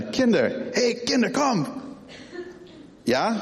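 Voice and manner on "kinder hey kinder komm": put-on higher, singsong call to the kids; playful call. Dad calling kids for something fun, playful. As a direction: call them over for fun. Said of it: "Mit so einer".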